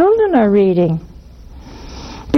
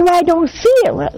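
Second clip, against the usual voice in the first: whiny objection; 7 semitones higher than usual. Retold or imitated. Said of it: "Now you say".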